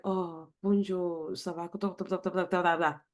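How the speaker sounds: put-on a lazy French accent made of blah blah; mock French accent. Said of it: "That's me speaking French".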